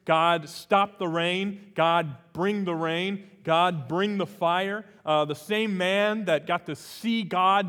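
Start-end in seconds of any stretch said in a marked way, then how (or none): 0.1-4.9 loud pleading prayer. Retold or imitated. Elijah's prayers quoted aloud.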